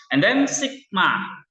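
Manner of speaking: high, slow, drawn-out announcement; mock-grand reveal of sigma; announcing next letter. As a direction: present the next letter like a show host. Teacher announces next Greek letter.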